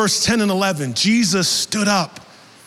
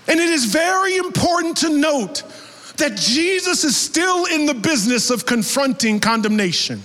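fervent sermon delivery; preaching. Acted. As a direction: drive the point home to the church. Preaching application to congregation.

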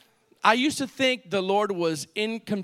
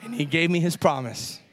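prophetic declaration. Shown as a demonstration. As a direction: declare it for the congregation to repeat. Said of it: "Say this prophetically".

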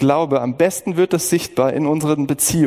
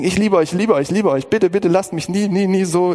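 pleading father; 5 semitones higher than usual. Retold or imitated. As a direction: beg your sons not to leave you. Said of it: "Ich wollte ihm zeigen".

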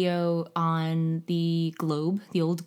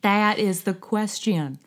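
slow, drawled Southern British Shakespeare; slower than usual. Shown as a demonstration. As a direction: recite Hamlet like a Southern Elizabethan. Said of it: "Southern British".

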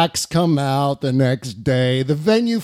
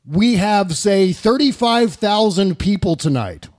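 lightly voiced politician, slow and slightly raised; Donald Trump; 4 semitones higher, slower than usual. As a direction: quote a rally boast with measured, drawn-out delivery. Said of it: "This is Trump saying".

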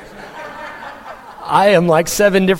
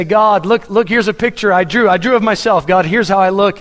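put-on eager child showing drawing; 4 semitones higher than usual. Proud child showing God a drawing.

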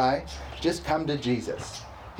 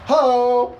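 big booming hero "Ho!" pitched up high; He-Man shout; 10 semitones higher, 8 dB louder than usual. Pretend. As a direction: call out like He-Man. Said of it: "Remember He-Man?".

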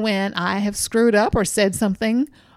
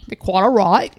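put-on posh English accent; 3 semitones lower, 4 dB louder than usual. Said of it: "like Princess Diana".

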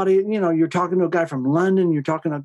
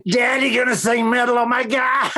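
put-on kids' excited voice; 7 semitones higher than usual. Kids quoted, high excited.

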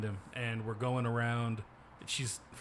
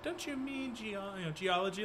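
high condescending voice; 10 semitones higher than usual. Retold or imitated. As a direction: talk down like a know-it-all. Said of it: "and they're like".

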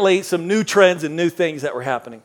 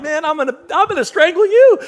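mock threat; 10 semitones higher than usual. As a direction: overblown coach fury. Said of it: "I'm like".

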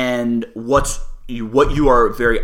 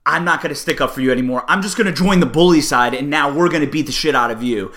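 mock betrayer. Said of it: "you look over at your friend and you go".

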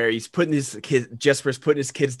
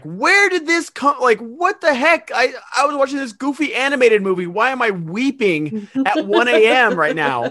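incredulous; 10 semitones higher, 4 dB louder than usual. Retold or imitated. Viewer caught off guard by emotional cartoon, high incredulous wail. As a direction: squeal the disbelief up high. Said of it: "And I'm just like".

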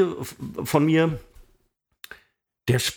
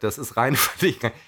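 verlegenes Lachen. Real, not acted. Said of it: "ich lache aus Verlegenheit".

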